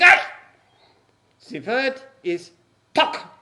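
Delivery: put-on slow correcting German accent. Commandant correcting the prisoners, slow German accent. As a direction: spell out the right word in a German accent. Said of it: "heard you do an accent".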